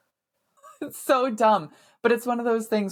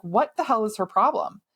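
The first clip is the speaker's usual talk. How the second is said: retold exasperation; 4 semitones higher than usual. Acted exasperated question to husband.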